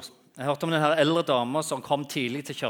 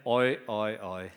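laughing a little; 6 dB louder, slower than usual. Retold or imitated. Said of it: "Og faktisk begynner å le litt".

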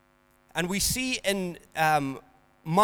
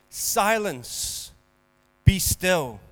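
mild rebuke; 3 dB louder, much slower than usual. Acted. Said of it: "he rebuked the wind and said".

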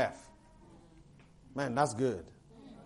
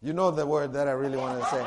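laughing aside; 3 semitones lower, faster than usual. Real, not acted.

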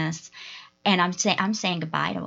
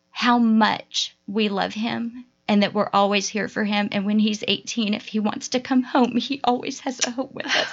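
fighting tears while talking; real tearful voice; 2 semitones higher than usual. Real, not acted. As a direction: hold back tears, voice climbing. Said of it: "Sorry, we're all crying now".

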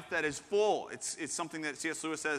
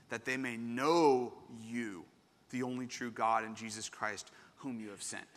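slow solemn reading; 5 semitones lower than usual. Shown as a demonstration. Pastor slowly reading the key verse to the church. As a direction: lay each phrase down gently.

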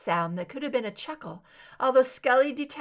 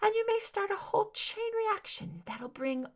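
raised, ominous soprano; cool soprano; 6 semitones higher than usual. Acted. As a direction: lift it, fading at the end.

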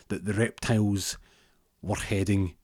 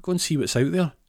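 elf voice; 11 semitones higher, 4 dB louder than usual. Retold or imitated. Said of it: "He goes".

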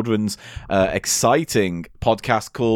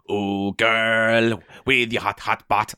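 put-on Jamaican accent; 4 semitones lower, 4 dB quieter, much slower than usual. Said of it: "in a cod Jamaican accent".

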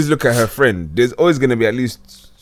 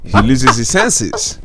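slow, preaching like a reverend; sermon tone, drawn out; much slower than usual. Acted. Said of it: "Sound like a reverend over there".

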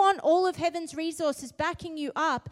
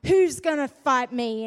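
giant's taunt; 7 dB louder than usual. Retold or imitated. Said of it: "He's like".

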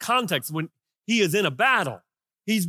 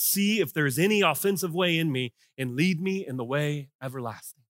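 humble prayer. Acted. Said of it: "the next words out of his mouth was".

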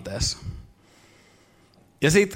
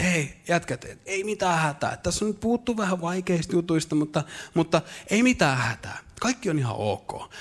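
reassuring Jesus; 7 dB quieter than usual. Retold or imitated. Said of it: "alkaa kertoa näille kavereille".

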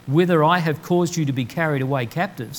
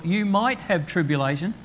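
mock hedging; 3 semitones higher than usual. Shown as a demonstration. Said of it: "He says".

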